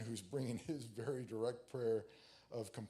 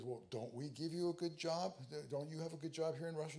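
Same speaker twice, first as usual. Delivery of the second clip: a raised, pushy interrogator voice, quicker at the end; KGB agent voice; 5 semitones higher than usual. Acted. KGB agent pressing the Jewish man, raised, fast interrogating voice. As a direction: lean in like a secret police officer pressing a suspect.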